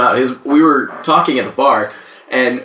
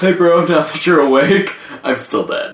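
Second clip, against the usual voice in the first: stoner voice. Retold or imitated. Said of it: "like, a stoner voice".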